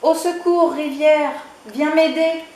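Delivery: high, loud cry to the river; calling out. Acted. Chick calling the river to come help him. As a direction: shout for rescue.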